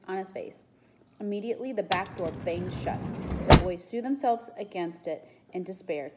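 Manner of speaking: measured read-aloud storytelling; story narration. A narrator's reading. Reader telling children of the soothsayer at work, story narration. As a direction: narrate the scene clearly.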